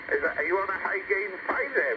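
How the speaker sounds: usual speaking voice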